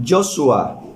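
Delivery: Joshua said slowly as "yo-shu-a"; Aramaic name. Shown as a demonstration. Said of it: "en arameo se dice".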